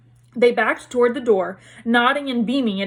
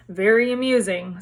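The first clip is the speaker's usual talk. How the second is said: dark. Acted. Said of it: "said Nearly Headless Nick darkly".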